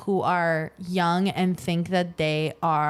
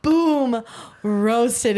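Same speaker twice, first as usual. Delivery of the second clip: excited; 3 semitones higher, 4 dB louder than usual. Real, not acted. Celebrating a roast.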